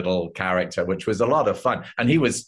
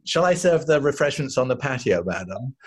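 butler voice; 3 semitones higher than usual. Retold or imitated. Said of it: "I'm saying".

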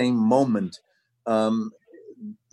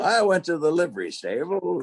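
higher, put-on Old West voice; Western town old-timer; 6 semitones higher than usual. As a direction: play an old Western townsman. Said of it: "a guy in the Western towns".

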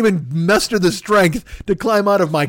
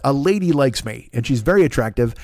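mocking friend; 7 semitones lower, faster than usual. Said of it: "You had a backyard jaunt".

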